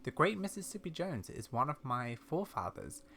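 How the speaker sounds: lightly voiced old lady recounting family lore; measured, soft storytelling as an elderly explorer; old lady character.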